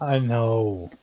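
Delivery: quietly voiced Jubei agreeing; in character. Character answers the table, lightly voiced. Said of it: "I was saying that in character".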